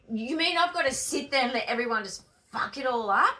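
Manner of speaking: loud, high-pitched objection; retold indignant protest. Student objecting to letting others mess it up, loudly indignant. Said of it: "And I'm thinking".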